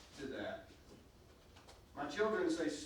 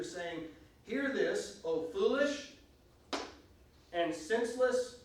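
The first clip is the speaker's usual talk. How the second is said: scripture reading. Acted. Reads scripture aloud.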